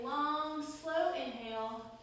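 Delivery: drawn-out, measured breathing cue; unhurried count-them-through-it delivery; slow breathing cue. Shown as a demonstration. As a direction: stretch the words to pace a long breath. Modelling long slow breaths.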